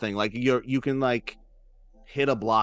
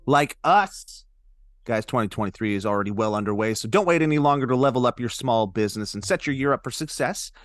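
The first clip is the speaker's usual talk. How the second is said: upbeat sponsor read. Acted. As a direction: sell it like a podcast ad. Ad read in a podcast.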